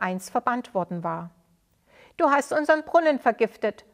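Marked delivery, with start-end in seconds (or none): 2.2-3.8 loud, higher furious accusation; angry scolding. Acted. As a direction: hurl the accusation at him. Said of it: "schimpfte einer der Männer".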